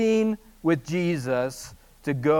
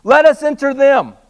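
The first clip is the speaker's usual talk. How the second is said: begging demon; 8 semitones higher, 10 dB louder than usual. Acted. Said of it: "the spirit begged".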